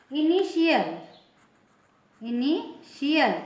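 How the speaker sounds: "इनिशियल" with shi in the middle; "इनिशियल" modelled with a clear sh; TIA as "sh". Shown as a demonstration. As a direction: say "इनिशियल" as i-ni-SHI-yal, then split it slowly. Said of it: "pronunciation क्या होगा इस word का".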